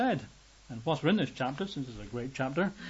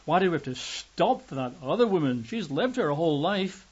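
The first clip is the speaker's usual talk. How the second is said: bitter; 3 semitones higher than usual. Pretend. Father resents Jesus stopping for the woman, bitter. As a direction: grumble at the delay with bitterness. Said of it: "perhaps, some bitterness".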